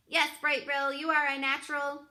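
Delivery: trying to sound motherly. A narrator's reading. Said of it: "trying to sound like a good mother".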